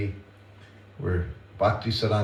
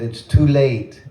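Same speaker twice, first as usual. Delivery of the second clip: mother's no, higher, louder and slow; retold mother's firm no, raised and slow; firm refusal; 5 semitones higher, 8 dB louder, slower than usual. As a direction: shut the request down like a mother. Mother refusing son's request.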